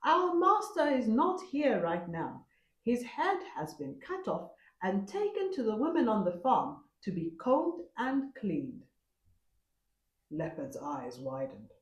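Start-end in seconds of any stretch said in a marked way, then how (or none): 0.0-8.8 much higher servant voice; bowing servants reciting the cover story; servants answering. A narrator's reading. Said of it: "the servants bowed and answered".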